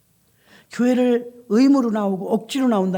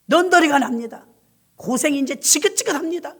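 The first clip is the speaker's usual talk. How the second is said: louder, higher bitter complaint to God; complaining prayer; 3 semitones higher, 3 dB louder than usual. Retold or imitated. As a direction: vent your frustration at God, fed up. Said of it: "불평과 원망".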